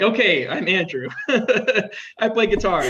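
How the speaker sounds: slow self-intro that breaks into a laugh; laughing at himself. Retold or imitated. Introducing himself to impressive delegates, laughing sheepishly. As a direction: play the awkward newcomer, laughing it off.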